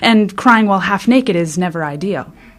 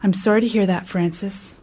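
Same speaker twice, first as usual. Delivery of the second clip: calm; 3 semitones lower, 7 dB quieter than usual. Retold or imitated. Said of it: "in a very calm voice".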